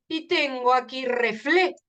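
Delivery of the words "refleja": REFLEJA broken after a stressed FLE. Shown as a demonstration. Teacher showing the tonic E in refleja, syllables split. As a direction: hit FLE, pause, then add JA. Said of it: "En la E se produce la fuerza".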